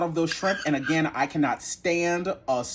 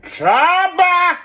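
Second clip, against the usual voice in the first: high loud burst of delight; excited exclamation; 12 semitones higher, 8 dB louder than usual. Real, not acted. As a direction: explode with joy at the first bite. First taste of salad.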